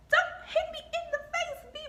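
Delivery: high, slow put-on pleading voice, laughing; mocking Georgia. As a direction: mimic her plea with a laugh. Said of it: "So she said".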